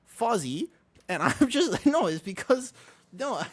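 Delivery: laughing denial, trying to explain; flustered giggly backpedal. Real, not acted. Flustered by chat, laughing through it.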